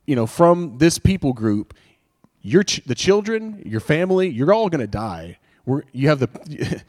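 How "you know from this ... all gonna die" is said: menacing decree. Acted. Preacher voicing the decree of death to the congregation, menacing. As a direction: sound like the ruler condemning a people. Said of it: "the passage that says".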